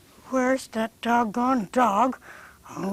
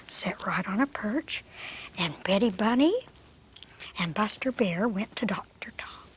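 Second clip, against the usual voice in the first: hushed narration. A narrator's reading. Puppeteer narrates the puppet show to kids, hushed.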